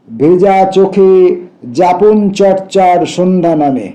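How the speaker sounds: measured reading in short phrases with long pauses; stretched words, pauses between poetic phrases; poetry recitation. Acted. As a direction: recite the verse, letting each image stand alone. Recites a poem aloud.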